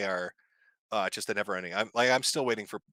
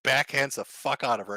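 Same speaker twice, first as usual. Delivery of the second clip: ordinary delivery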